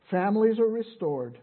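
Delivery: loud preacher's declaration; emphatic proclamation. Real, not acted. Preacher declares the gospel's next promise to congregation, emphatic.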